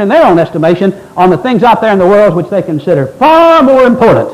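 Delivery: emphatic, driving pulpit delivery; forceful preaching. Real, not acted. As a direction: preach it hard, hitting the key words.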